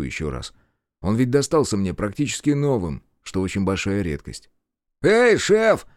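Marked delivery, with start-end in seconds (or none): 5.0-5.9 high, loud call to someone ahead; high-pitched acted holler. A narrator's reading. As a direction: hail the boss from behind. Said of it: "услышал я оклик в спину".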